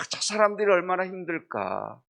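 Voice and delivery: compassionate lament. Retold or imitated. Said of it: "하면서 고통당하는 자들을 보기".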